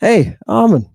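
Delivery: high mock whiny objector; a hint of a nagging critic. Lecturer mocks students who object, high mock whine. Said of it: "for those of you who say".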